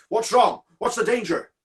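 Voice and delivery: high, alarmed shouted questions; calling out. Acted. Signalman runs towards the figure, calling out in alarm. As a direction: call urgently to someone down the line. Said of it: "calling out".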